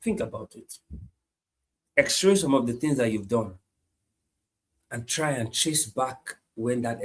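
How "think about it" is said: whisper. Real, not acted. Preacher drops to an aside.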